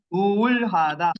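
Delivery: Уулхада drawn out slowly syllable by syllable; slow drilled word. Shown as a demonstration. Teacher drilling Уулхада slowly for class. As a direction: spell out Уулхада slowly for students. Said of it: "Уулхада деп жаттагыла".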